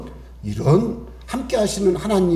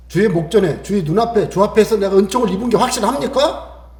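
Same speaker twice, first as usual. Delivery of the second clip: normal talking voice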